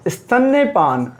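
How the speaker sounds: स्तन्यपान said slowly with the य clearly heard; correct form, careful. Shown as a demonstration. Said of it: "स्तनपान नहीं होता भाई". (सही शब्द स्तन्यपान, य पर ज़ोर)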